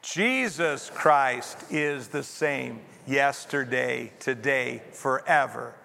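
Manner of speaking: slow recitation leaning hard on "Jesus"; stress on JESUS. Shown as a demonstration. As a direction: lead a group reading with "Jesus" stressed. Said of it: "getting the emphasis on Jesus".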